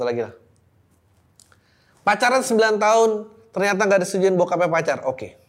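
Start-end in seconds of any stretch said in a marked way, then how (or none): 2.0-5.1 higher and louder like a show host; hyped announcement. Real, not acted. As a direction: announce the next story with energy. Announcing next letter.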